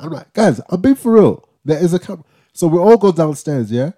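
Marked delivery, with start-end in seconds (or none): 0.3-2.2 higher, pleading insistence; frustrated retold plea; exasperated insisting. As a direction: make them believe you this time. Insisting again, more urgently.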